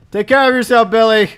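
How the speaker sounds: fond parting call across the distance; calling goodbye. Real, not acted. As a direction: shout it after him as he leaves. Calling goodbye to departing Billy.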